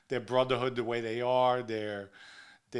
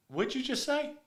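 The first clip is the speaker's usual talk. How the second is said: incredulous; 12 semitones higher than usual. Retold or imitated. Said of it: "And I was like".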